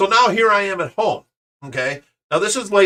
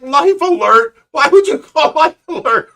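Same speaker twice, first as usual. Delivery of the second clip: much higher, louder disbelieving cry; incredulous; 10 semitones higher, 6 dB louder than usual. Retold or imitated. Dad answering his buddy on the phone, high loud disbelief. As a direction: squeal it in total disbelief. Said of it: "And I'm like".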